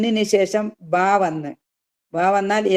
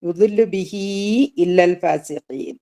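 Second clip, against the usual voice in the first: recited at a normal pace; slower than usual. Shown as a demonstration. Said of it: "അല്ലേ?".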